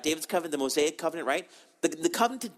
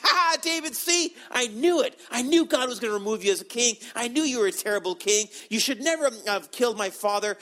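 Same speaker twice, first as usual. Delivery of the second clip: mock-gloating, pitched up and jeering; taunting cursing; 5 semitones higher, 3 dB louder than usual. Saul's kinsman cursing David from the hill, taunting. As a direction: crow over a fallen king. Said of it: "he's cursing David".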